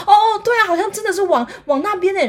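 high, loud, nervous laugh into agreement; boy pretending nothing happened; feigned innocence. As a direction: play it cool while covering up. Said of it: "假装一切就是没有事情发生".

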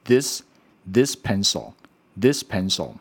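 slow model of "this", tongue between the teeth for th; "this" with a voiced dental th, slowly demonstrated; correct TH. Shown as a demonstration. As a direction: say "this pencil" slowly as a teacher's example. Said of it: "我们会念".

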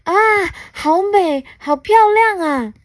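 high, delighted gasp of admiration; exclaiming in wonder. A narrator's reading. Alien sees a candy stall, exclaiming in wonder. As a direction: gush in acted amazement, pitch way up. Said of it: "他惊呼着".

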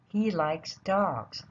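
very slow, each word clear; slow teaching read. Shown as a demonstration. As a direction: spell it out slowly for kids. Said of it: "再念一次".

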